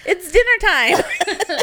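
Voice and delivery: laughing. Real, not acted. Laughing while joking.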